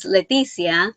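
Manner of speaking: name said with a Spanish accent. Shown as a demonstration. Crocheter giving her real name, Spanish accent. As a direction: say "Leticia" the Spanish way. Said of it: "when I say it with my Spanish accent".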